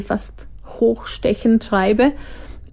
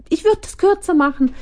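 higher imitation of test reader; 10 semitones higher than usual. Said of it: "Sie hat mir dann auch gesagt".

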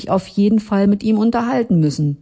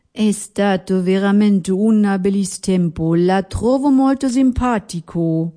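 gentle Italian farewell, rising at the end; lightly voiced Gusto; 3 semitones higher than usual. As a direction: say goodbye fondly in Italian.

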